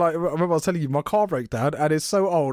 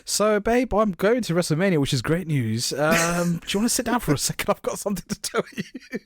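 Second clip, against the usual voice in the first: mock breaking news to wife; 4 semitones higher than usual. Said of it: "I would have had to sit my wife down".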